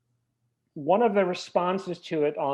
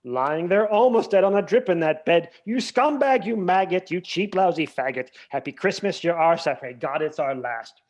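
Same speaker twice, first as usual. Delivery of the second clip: reciting lyrics; 5 dB louder than usual. Retold or imitated. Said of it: "the original one is".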